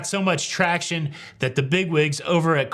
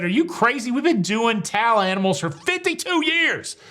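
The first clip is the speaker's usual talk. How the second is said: high-pitched mock British accent; John Heald; 5 semitones higher than usual. Brand ambassador defending towel animals, mock British accent. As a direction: play an indignant Brit in British accent. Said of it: "he said it in a British accent".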